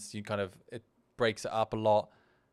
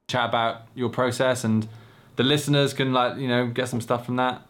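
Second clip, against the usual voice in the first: mock replay; 5 dB louder than usual. Shown as a demonstration. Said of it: "listen to what I said".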